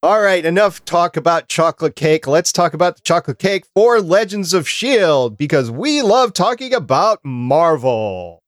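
upbeat announcer lead-in with drawn-out finish; podcast host announcing. Real, not acted. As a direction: launch the segment like a radio host.

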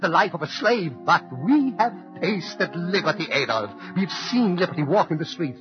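impassioned defiance hurled at a dictator; rising outrage. Acted. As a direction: build from anger to a ringing denunciation. Immigrant's letter denouncing Hitler.

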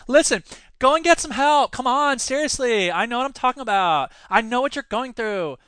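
a mock lisping English teacher urging vets to get help; comical effete accent. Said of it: "that comical accent".

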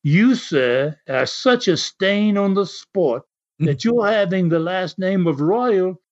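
lightly put-on English accent. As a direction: act out an English wrestler's promo, accent lightly done. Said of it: "while you were doing that accent".

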